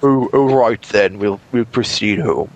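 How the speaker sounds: put-on slow, resigned English accent; lightly voiced English gent, unbothered. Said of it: "English accent".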